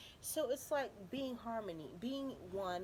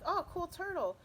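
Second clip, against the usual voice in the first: doctor's reaction; 10 semitones higher than usual. Retold or imitated. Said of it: "he's like".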